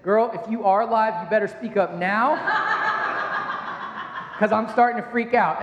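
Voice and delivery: a hint of stern dad, laughing through; mock-stern father calling his daughter, half laughing; lightly voiced stern dad. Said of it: "I put on my dad voice".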